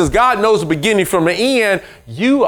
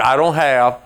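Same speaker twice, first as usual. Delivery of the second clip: self-pitying complainer; 3 semitones lower than usual. Retold or imitated. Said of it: "but people".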